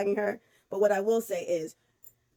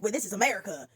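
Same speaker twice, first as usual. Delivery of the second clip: mock smug quote; faster than usual. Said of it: "and it's like".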